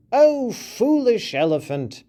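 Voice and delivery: high mouse voice scolding the elephant; mouse crying out. A narrator's reading. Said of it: "the mouse cried again".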